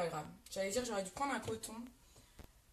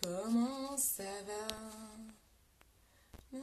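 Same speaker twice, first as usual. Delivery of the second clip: very slow, soft, stretched greeting; drawn-out singsong; 5 dB quieter, much slower than usual. Real, not acted. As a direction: stretch every syllable lazily.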